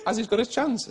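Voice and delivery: a light mock-royal lilt; imitating the Queen. The Queen congratulating him, lightly voiced royal. The Queen asking about racehorse.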